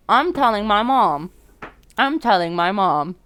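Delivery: loud, drawn-out singsong threat; mock tattling. Player threatening to tell on the boy, playful singsong. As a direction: chant it like a kid about to tattle.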